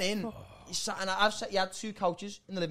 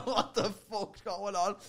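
slow laughing disbelief; slower than usual. Retold or imitated. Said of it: "I was going".

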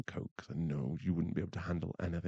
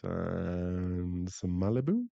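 coy admission; much slower than usual. Acted. Coyly admits spiking the drink.

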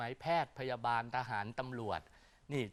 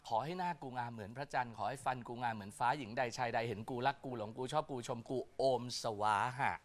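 slightly lowered, even chanting delivery; incantation recital; 2 semitones lower than usual. Acted. Astrologer teaching loveless listeners a face-washing charm, incantation recital. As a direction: recite it as a memorized spell.

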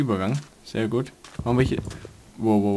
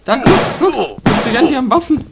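excited shouting; 12 semitones higher, 6 dB louder than usual. Real, not acted. Enemies charge with weapons.

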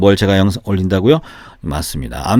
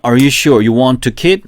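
very slow, each word spaced for repeating; deliberate slow model sentence, question lifted at the end; slow drill reading; 4 semitones higher, 3 dB louder, much slower than usual. Shown as a demonstration. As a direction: read it slowly so students can follow. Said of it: "한 번 더, 시작".

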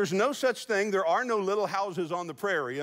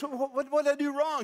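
high, baffled husband voice, pitched up; flustered husband; 8 semitones higher than usual. Retold or imitated. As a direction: play the confused husband on his knees. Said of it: "And he goes".

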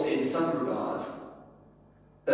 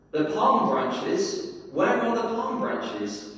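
higher, slow, drawn-out plea; shouting; 7 semitones higher, slower than usual. Acted. Donkey crying out in the marketplace for palm branches, shouting high. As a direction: demand the palm branches, pitch climbing. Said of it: "he shouted".

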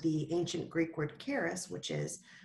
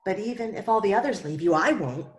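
louder, quick, insistent vow; insistent Peter; 7 dB louder than usual. Acted. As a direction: swear it eagerly and fast. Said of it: "Peter felt bad".

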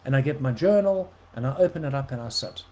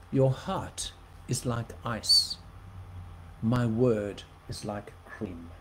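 lower, slow solemn pronouncement; voice of God; 5 semitones lower, 3 dB quieter, slower than usual. Retold or imitated. Preacher quoting the Lord to listeners, slow and solemn. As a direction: deliver it slowly like a divine word. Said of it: "you know what he said".

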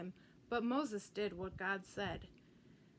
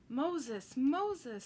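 calling Moses, rising higher and louder; loud divine call from the bush; 4 semitones higher, 5 dB louder than usual. Acted. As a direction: boom out the name twice like God calling. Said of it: "said a loud voice".

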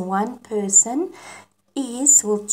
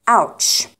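mock ouch; 5 dB louder than usual. Shown as a demonstration. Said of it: "For example".

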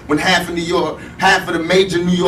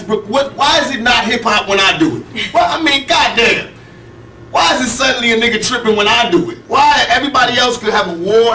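heated rant; 5 semitones higher than usual. Real, not acted. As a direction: vent hard, voice raised high. Heated rant about East Coast.

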